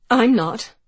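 sharp, loud and raw; harsh and raw. A narrator's reading. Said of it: "The words came out harsh and raw".

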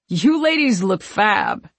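slow, lilting compliment; giddy drunk admirer; tipsy gushing. A narrator's reading. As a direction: gush over their costumes. Drunk fan gushes.

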